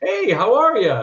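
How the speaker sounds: big, friendly voice, slow and drawn-out. Retelling a greeting at an audition: imitating Jerry's big friendly greeting. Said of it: "gave me a big old friendly".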